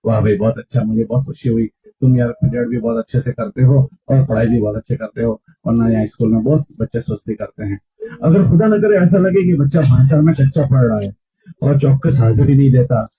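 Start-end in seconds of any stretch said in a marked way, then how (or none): 0.1-7.8 soft, lower voice of gentle praise; warm praise. Shown as a demonstration. Preacher showing how to praise a good student, warm and soft. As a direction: pat him on the back with your voice, softly. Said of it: "तो उसकी शाबाशी दो".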